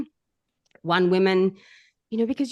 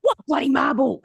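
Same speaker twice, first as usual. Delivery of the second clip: higher-pitched, incredulous retort; mock exasperation; stressed truck driver; 6 semitones higher than usual. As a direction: imitate a baffled, resistant client. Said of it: "so stiff and so stressed".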